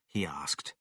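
usual speaking voice

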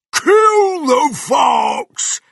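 very high, drawn-out yell; shouted war cry. Acted. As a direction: bellow it long and loud. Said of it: "he shouted".

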